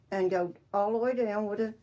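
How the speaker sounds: talking around a pin held in lips; mumbled with a pin in mouth. Real, not acted. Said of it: "got a pin in my mouth".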